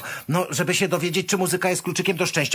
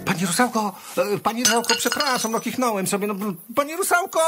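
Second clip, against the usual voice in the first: flustered calling out; 6 semitones higher, faster than usual. Acted. Apologising to the fleeing nymph for sneezing, flustered calling. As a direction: call after her urgently, pitch climbing at the end.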